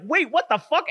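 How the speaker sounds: very high startled exclamation; mock shock. Voicing the startled body pillow man.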